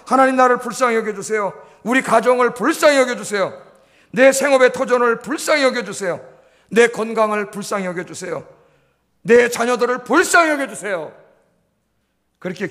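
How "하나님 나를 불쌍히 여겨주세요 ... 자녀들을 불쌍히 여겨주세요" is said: model prayer. Shown as a demonstration. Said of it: "오늘부터 기도하세요".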